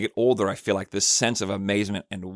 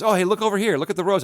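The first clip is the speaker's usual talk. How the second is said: put-on playful voice for a child; 9 semitones higher, faster than usual. Ben showing flower to child.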